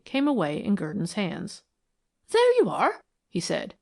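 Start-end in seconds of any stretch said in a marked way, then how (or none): 2.3-3.0 triumphant. A narrator's reading. Triumph at the molding coming away.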